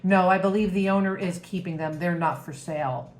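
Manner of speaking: a hint of a firm drill sergeant; mildly imitated sergeant voice; sergeant-like military voice. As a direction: lightly imitate a stern military refusal. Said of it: "in a very sergeant-like military voice".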